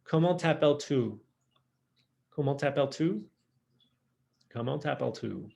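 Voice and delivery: comment t'appelles-tu in American accent, tu like "too"; American learner's French, lips not pushed forward. Shown as a demonstration. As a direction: say the French question with slack American vowels. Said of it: "it's gonna be very American".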